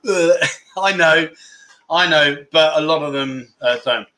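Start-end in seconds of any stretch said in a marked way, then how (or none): 0.1-0.5 imitated grunt of disgust; mock disgusted "ugh". Imitating viewers hearing about unshaven legs, mock disgust. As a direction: mimic a listener's revolted noise. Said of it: "I know what you're going".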